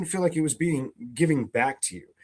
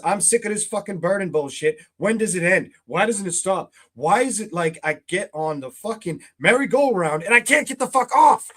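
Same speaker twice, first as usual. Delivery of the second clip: mock fed-up rant; 4 semitones higher, 4 dB louder than usual. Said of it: "kind of energy".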